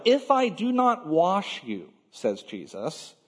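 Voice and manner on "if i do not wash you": firm, higher-pitched condition; forceful reply. Retold or imitated. Jesus answers Peter's refusal, forceful. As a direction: press the words as a mild, forceful warning. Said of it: "the force perhaps is quite similar".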